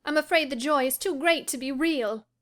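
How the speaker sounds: mock his snobbery playfully; mocking teasing. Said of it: "half angry, half laughing at his fastidiousness".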